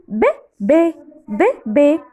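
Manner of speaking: "bébé" with a tight, closed é in both syllables; teacher modelling closed é in "bébé". Shown as a demonstration. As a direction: say "bébé" slowly, mouth nearly closed on each é. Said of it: "C'est fermer la bouche".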